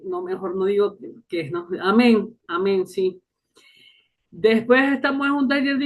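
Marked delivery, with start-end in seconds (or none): 1.8-2.4 forced amen; mock amen. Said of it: "Lo que me provocaba era". 2.5-2.9 amén entre dientes; muttered amen. Retold or imitated. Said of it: "Lo que me provocaba era".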